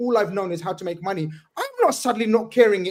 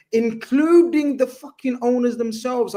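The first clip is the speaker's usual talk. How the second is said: slower, higher, emotional outburst; real worked-up emotion; 4 semitones higher, slower than usual. Real, not acted. Host getting emotional about the club's owners, worked up. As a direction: let frustration push the pitch up, drawn out. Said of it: "I'm sorry, I'm getting emotional".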